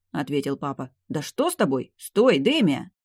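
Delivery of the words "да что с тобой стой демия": calling out. A narrator's reading. Father calls after fleeing daughter.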